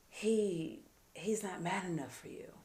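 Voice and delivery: soft tempting whisper; whisper in the ear. Retold or imitated. Lover whispers to a married woman, hushed. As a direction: murmur it close, like a secret. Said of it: "That's the whisper in the ear".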